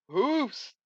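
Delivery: sudden squeak. Acted. Comic reading, sudden outburst.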